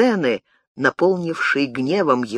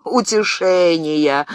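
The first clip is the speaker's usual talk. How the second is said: mocking laugh; 2 semitones higher, slower than usual. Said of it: "рассмеялся привратник".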